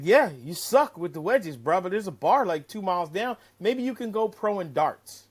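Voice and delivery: smart-ass taunt. Retold or imitated. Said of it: "gave him a smart ass look".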